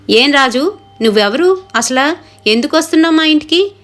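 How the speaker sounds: wife loudly demanding who the man is; asking loudly. Acted. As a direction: confront the stranger from the window. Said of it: "అని అడుగుతుంది గట్టిగా".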